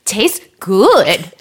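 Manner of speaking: put-on stretched, German-sounding child's approval; imitated German-tourist toddler. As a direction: mimic a little German tourist enjoying food. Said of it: "talks like a little German Taurus".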